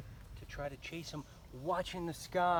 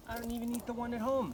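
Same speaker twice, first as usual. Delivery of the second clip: put-on snooty girl; 8 semitones higher, 3 dB louder, faster than usual. A narrator's reading. Girl scoffs.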